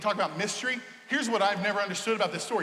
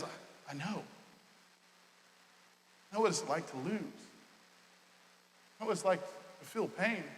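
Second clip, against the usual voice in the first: much softer, near-whispered comfort; tender hush; 3 semitones lower, 10 dB quieter than usual. Retold or imitated. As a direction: lean in and console quietly. Jesus consoling the grieving.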